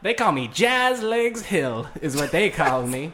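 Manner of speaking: vaudeville showgirl. Acted. Hillary persona.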